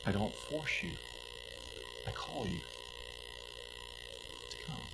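softly invite, never pushing; gentle soft voice. Acted. Preacher voicing God's gentle call, fading very soft. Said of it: "But he says".

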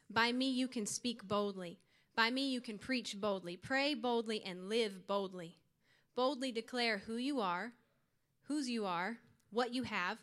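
reading each line out loud with ringing, emphatic conviction; bold declaration. Shown as a demonstration. Youth speaker reads a boldness confession aloud to the group, declaring it loud and firm. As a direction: proclaim it like a battle cry, each boldly pressed. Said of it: "I say this out loud".

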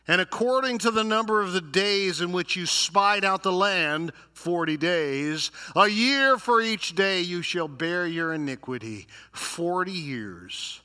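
emphatic preacher's reading; forceful scripture reading. Acted. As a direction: pronounce a sentence from the pulpit. Reads God's judgment at full force.

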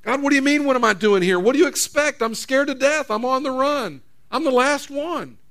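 frightened prophet begging God; scared Elijah. Acted. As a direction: whine to God like a cornered man. Preacher voicing frightened Elijah's complaint.

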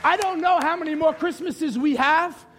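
preacher pressing an appeal; urgent altar call. Real, not acted. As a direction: call the church firmly to attention.

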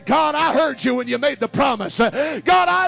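loud, high, impassioned preaching; fiery preaching. Real, not acted. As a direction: build the church up, shouting. Preaching at full force.

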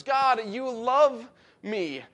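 God, you love me drawn out very slowly; slow, reverent marveling; slow, awed. Shown as a demonstration. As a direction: linger on each word in wonder. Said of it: "in other words".

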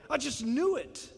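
a hint of a sulky prophet; sulky Jonah. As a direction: mutter it like a told-you-so. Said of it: "You sound like it, right?".

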